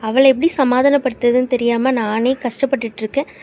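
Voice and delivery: furious at him for mocking a crying friend; angry scolding. Scolding friend who jokes at bad time.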